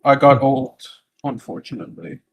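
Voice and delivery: put-on deadpan old hermit voice; monotone voice. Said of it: "in the most monotone voice that the speaker has ever, has ever done".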